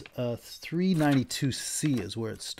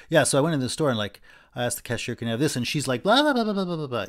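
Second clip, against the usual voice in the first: lively, louder, animated retelling; acting out a story; 2 semitones higher, 5 dB louder, faster than usual. Shown as a demonstration. Teacher demoing a crude storyteller, animated and louder. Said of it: "that would be different from saying".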